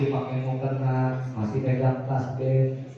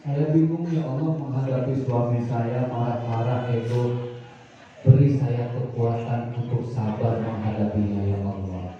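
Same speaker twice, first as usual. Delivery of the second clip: wife praying to God; 2 semitones lower than usual. Acted. Wife confiding her marriage to Allah, gently pleading.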